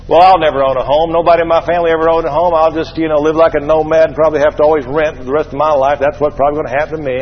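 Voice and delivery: fast, monotone run of mock resignation; resigned excuse-making. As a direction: rattle it off like a hopeless defeatist. Voicing a hopeless would-be homeowner's excuse.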